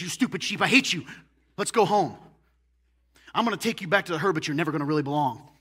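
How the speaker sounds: loud, harsh mock scolding of the sheep, rushing the last lines; a hammed-up angry shepherd berating his lost sheep; cruel scolding shepherd.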